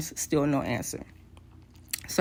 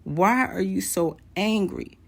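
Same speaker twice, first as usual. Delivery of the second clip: baffled inner voice; 3 semitones higher, slower than usual. Retold or imitated. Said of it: "in my mind, I'm like".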